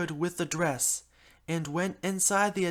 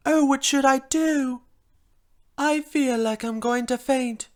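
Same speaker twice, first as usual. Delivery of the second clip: drama queen; 5 semitones higher, 4 dB louder than usual. Acted. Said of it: "Being the drama queen as I am".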